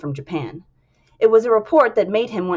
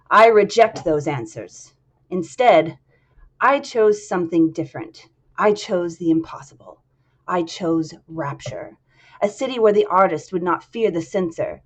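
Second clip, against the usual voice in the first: proud declaration. Acted. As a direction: proclaim it like a visionary founder. Andrew Ryan's speech climax.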